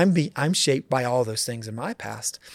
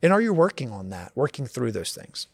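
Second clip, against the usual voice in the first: deeper question; 3 semitones lower, 3 dB quieter than usual. Shown as a demonstration. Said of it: "a deeper level".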